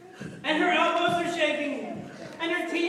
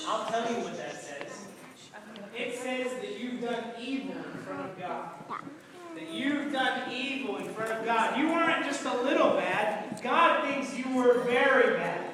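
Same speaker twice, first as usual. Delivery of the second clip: solemn Daniel; 2 semitones lower than usual. Acted.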